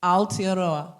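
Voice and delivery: Aotearoa low and careful, every syllable sounded. Shown as a demonstration. Comedian repeating the name after a helper's coaching, every syllable careful. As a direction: say each syllable of Aotearoa, vowels separate. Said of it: "slow it down and say every syllable".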